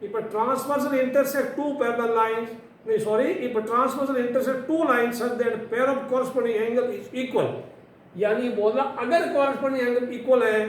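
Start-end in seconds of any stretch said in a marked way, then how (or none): 0.0-2.5 slow, deliberate reading; measured slow-motion recital. Shown as a demonstration. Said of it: "देखो slow motion में सुनना". 3.5-7.5 slow, deliberate restart; measured textbook reading; slow motion. Shown as a demonstration. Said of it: "देखो slow motion में सुनना".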